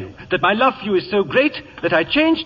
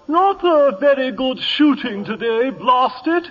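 Lord Bottomley impression; 3 semitones higher than usual. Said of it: "that's Bottomley to the very bottom".

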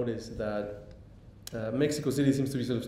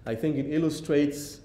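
ILLUSTRATES lifted in pitch for emphasis; stress on ILLUSTRATES; 5 semitones higher, 4 dB louder than usual. Real, not acted. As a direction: underline the word "illustrates" with the voice. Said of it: "I underline the word illustrates".

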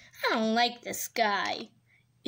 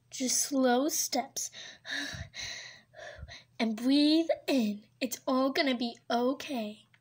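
soothing coach. Acted. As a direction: talk her through it gently. Guiding woman in labor.

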